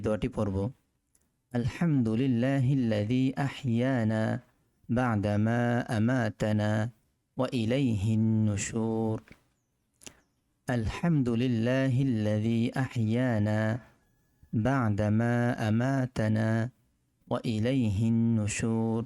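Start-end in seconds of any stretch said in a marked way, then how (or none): 1.5-9.2 slow, deliberate Arabic recitation. Shown as a demonstration. Teacher recites the waking dua slowly for students. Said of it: "চলুন পরের দোয়াটি শিখি". 10.7-19.0 slow, deliberate Arabic recitation. Shown as a demonstration. Teacher recites the waking dua slowly for students. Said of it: "আবার বলছি".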